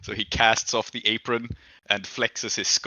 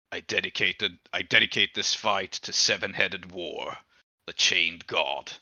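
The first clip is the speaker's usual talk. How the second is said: low, slow, solemn oath; a hint of a grim zealot; menacing warrior oath; 3 semitones lower than usual. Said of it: "and then he says".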